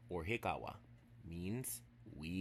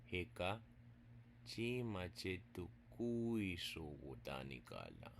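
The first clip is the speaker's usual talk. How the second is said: slow, careful Chickasaw sentence; slow teaching read. Shown as a demonstration. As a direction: spell it out word by word. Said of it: "I'll say it slow".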